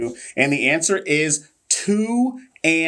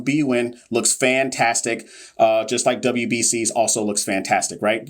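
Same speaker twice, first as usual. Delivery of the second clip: sarcasm. Pretend. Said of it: "that's all sarcasm".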